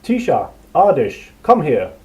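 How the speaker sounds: loud call down a corridor; shouting. A narrator's reading. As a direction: call companions from afar. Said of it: "the other shouted into the lighted corridor".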